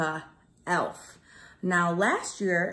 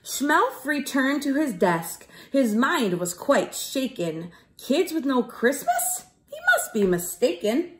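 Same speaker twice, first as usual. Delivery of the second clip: put-on lively sing-song read to children; bouncy rhyming story voice for kids; storybook narration. A narrator's reading. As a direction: read it like a rhyming picture book to a class. Teacher reads rhyming storybook.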